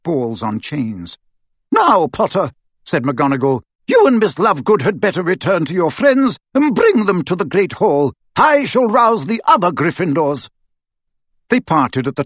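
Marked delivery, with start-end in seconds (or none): 1.7-10.5 higher, crisp commanding witch; a brisk headmistress giving orders; stern professor. A narrator's reading. A stern witch instructing a fellow teacher, crisp. McGonagall voiced.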